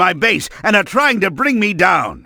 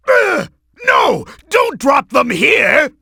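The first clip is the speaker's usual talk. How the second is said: panicked shout; 5 semitones higher than usual. Acted. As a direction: cry out as your own bombs fall. Bombs falling on himself.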